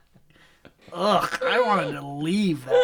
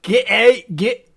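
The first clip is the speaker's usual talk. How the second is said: Scottish accent. Shown as a demonstration. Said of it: "Scottish accent".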